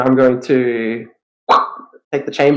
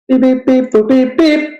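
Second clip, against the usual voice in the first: high beeping computer noises; robot beeps; 10 semitones higher than usual. Pretend. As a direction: beep like a little machine. Linking chart, making computer noises.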